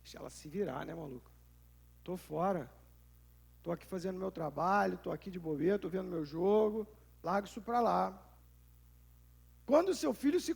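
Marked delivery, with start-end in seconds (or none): 0.0-8.2 understated indifferent father; lazy dad brushing off. Retold or imitated. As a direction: shrug it off, eyes on the game. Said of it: "o que que você faz?".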